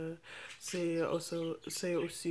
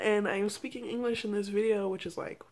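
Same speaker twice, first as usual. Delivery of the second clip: louder, livelier English-speaking persona; American self; 2 semitones higher, 4 dB louder than usual. Shown as a demonstration. Vlogger showing her American side versus her French one, big and animated. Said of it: "show the difference between her French self and her American self".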